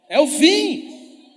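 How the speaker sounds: very slow, high, loud drawn-out answer; stretched punchline. Real, not acted. Preacher hammers the answer home to the crowd. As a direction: stretch it out like a revelation. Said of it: "Acabei de contar o código".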